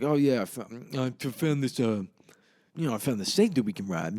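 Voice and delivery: a half-hearted stab at his odd voice; Paulie, badly imitated. Paulie telling Charlie about the safe, badly imitated. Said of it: "I can't do his voice well".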